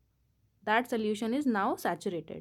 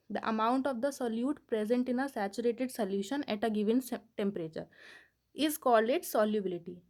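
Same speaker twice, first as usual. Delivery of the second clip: definition read out slowly, word by word; slow dictation; much slower than usual. Shown as a demonstration. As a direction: dictate it so students can write. (धीमे-धीमे परिभाषा लिखवाना)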